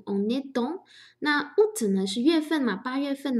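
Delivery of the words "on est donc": "on est donc" linked without a break; liaison. Shown as a demonstration. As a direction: run the words of "on est donc" together. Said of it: "和on也连读".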